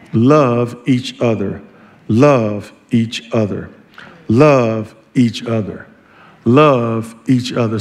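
slow, measured, each word set apart; deliberate preacher's refrain; solemn repetition. Real, not acted. Preacher repeats theme for emphasis.

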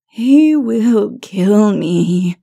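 very slow, drawn-out moan. A narrator's reading. Lilith fearing her husband, a long moan. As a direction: moan it, stretching every word. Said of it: "she moaned".

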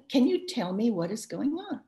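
gentle inquiry with no accusation in it; non-accusatory. Shown as a demonstration. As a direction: ask without blame, simply checking in. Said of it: "In a non-accusatory tone of voice".

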